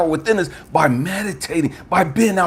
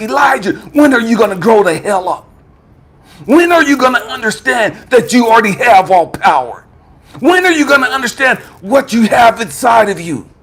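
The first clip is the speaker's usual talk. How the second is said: raised, forceful scolding; exasperated divine rebuke; 3 semitones higher than usual. Retold or imitated. God tells Elijah to grow up, exasperated scolding. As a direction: hammer each question home at higher pitch.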